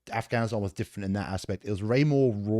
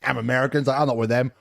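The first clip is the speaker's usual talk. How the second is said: feigned ignorance; 5 semitones higher, 6 dB louder, faster than usual. Retold or imitated. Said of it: "I'd just feign, like, ignorance".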